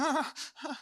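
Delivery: mock cheery chuckle; forced laugh. Fallen world pretending everything's fine, forced laugh. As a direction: laugh it off unconvincingly.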